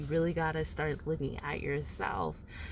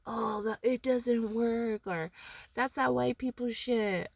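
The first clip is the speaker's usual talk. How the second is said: dismissive skeptic; 5 semitones higher than usual. Retold or imitated. Imitating skeptics dismissing the advice, mock scoffing. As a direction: scoff at it like a doubter. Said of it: "I know that shit sounds like".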